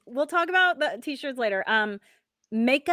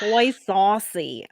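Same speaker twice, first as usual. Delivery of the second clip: slow New York accent; 2 semitones lower, much slower than usual. Shown as a demonstration. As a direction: drawl it like a New Yorker. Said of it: "say it with a New York accent".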